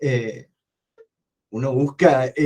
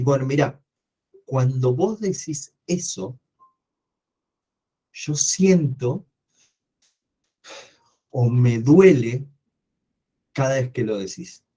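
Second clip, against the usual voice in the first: calm sincere demo. Shown as a demonstration. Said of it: "Si vos hablás con esa elocuencia".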